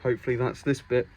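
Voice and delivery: muffled behind a mask; through a face mask. Real, not acted. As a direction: speak through a dust mask. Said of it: "sorry, I have my mask on".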